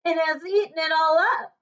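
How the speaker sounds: a tiny bear crying out; squeaky wee bear, rising sharply at the end; little small wee voice. Acted. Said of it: "cried ... in his little small wee voice".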